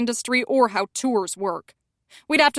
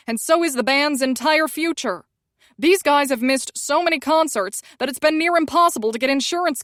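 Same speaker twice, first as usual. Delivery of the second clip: rising, louder panicked rant, climbing higher; 4 semitones higher, 4 dB louder than usual. Acted. Publicist ranting at her about the ruined tour, panicked and loud.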